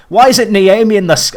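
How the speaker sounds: abandoned attempt at a Scottish accent, barely there; failed Scottish accent. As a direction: start a Scottish fan's accent and give up. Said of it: "I can't do a Scottish accent".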